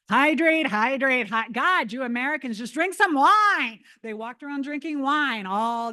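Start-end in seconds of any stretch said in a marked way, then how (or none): 0.1-3.8 mock exasperation. Mocking Italians mocking Americans.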